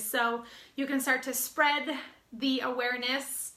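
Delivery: talking while short of breath; breathless after a workout, pushing words out. Real, not acted. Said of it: "I'm really out of breath today".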